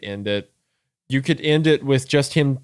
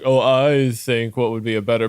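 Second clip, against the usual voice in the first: mock pretentious. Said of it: "this is very pretentious of me".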